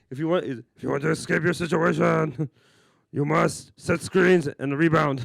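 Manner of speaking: a hint of Cookie Monster growl; Dikembe Mutombo impression. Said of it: "He sounds like the fucking Cookie Monster".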